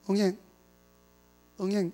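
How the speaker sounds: put-on soft baby cry. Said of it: "이렇게 하는 거 애가 아니야".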